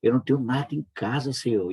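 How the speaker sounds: urgent prayer to God, mildly imitated; a touch of desperation in a retold prayer; retold tearful plea. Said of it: "E eu, eu chorando".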